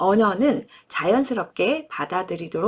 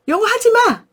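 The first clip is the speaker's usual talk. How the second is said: put-on high, loud whiny child yelling; a five-year-old shouting at mom to stop; child's protest; 13 semitones higher, 6 dB louder than usual. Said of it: "그럼 여전히 그래요". (높고 크게 떼쓰는 아이 목소리)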